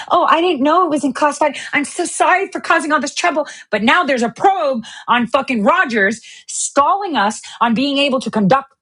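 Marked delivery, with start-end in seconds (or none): 0.1-3.5 high, fake-sorry voice; lightly voiced fake apology; mock innocent apology. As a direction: sound falsely innocent. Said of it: "she could say".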